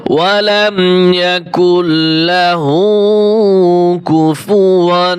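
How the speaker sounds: slow, drawn-out tajweed recitation; Quran recitation. Shown as a demonstration. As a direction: chant each word long and even, like tilawat. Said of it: "teacher demonstrates recitation".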